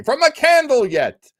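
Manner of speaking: playful high mock voice for a friend's chat comment; squeaky mock voice. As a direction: squeak it out to tease Joe. Repeats Joe's comment, adding yet.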